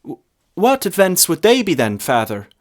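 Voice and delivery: put-on high, stammering young lad; nervous lad. A narrator's reading. Lad nervously asking the priest. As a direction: stutter it out, timid and unsure.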